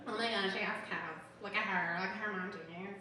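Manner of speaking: lightly voiced judgmental gossip; mocking judgmental people. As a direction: imitate people jumping to conclusions. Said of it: "I just imagine that as people are like".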